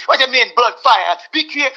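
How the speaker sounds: playfully imitated Jamaican Patois accent; put-on Jamaican accent, lightly hammed up; mock Jamaican accent. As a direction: do a teasing Jamaican accent impression. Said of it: "please have accents".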